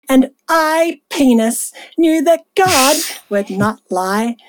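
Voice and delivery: slow, drawn-out scripture reading. Acted. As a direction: read it out slowly like solemn scripture.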